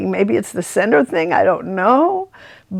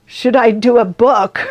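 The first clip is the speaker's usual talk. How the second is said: a laughing, louder rhetorical question; 4 dB louder than usual. Retold or imitated. Narrator, amused at the vision, laughing through the question. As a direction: laugh at your own absurd idea. Amused at her own misreading.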